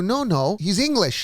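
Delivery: acted director's objection; film director. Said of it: "the director goes to you".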